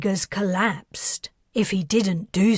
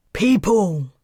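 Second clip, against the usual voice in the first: loud call to a crowd; 6 dB louder than usual. Acted. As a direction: shout to get the crowd's attention. Calling out to a crowd.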